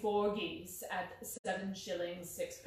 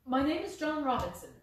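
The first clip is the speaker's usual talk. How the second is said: evasive; 4 semitones higher, 5 dB louder than usual. Acted. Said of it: "he answered, with a sidelong glance".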